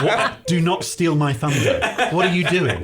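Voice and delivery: amused, affronted protest; mock indignation. Englishman scolding rival on boat, mock indignation. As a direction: object playfully, a laugh close behind.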